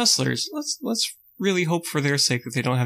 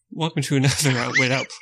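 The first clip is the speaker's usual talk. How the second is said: laughing. Real, not acted. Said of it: "don't make me do it again".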